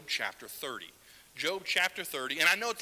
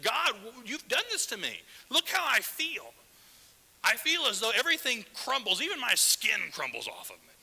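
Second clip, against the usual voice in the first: higher, louder, voicing Job's anguish toward God; anguished plea; 6 semitones higher, 5 dB louder than usual. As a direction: cry it out like a man in agony, building then fading to a whisper. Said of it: "Do you hear the agony in his voice".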